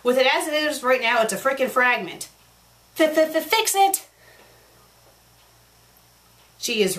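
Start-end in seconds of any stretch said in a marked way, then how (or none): 3.0-4.1 stuttered high shouted order; hammed-up frustrated yell; mock angry outburst. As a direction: sputter it out in exasperation. Ranting reader scolds fanfic author.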